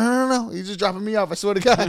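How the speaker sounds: high, frantic pleading; panicky denial. Retold or imitated. Guest explains himself to the suspicious roommate, high and panicky.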